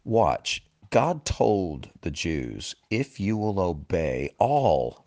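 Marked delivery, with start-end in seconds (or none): 2.9-5.0 "all" drawn out slowly; stress on "all". Real, not acted. Preacher quoting God's condition to the Jews, stressing "all". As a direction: lean long and deliberately on "all". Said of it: "I emphasize that word every time".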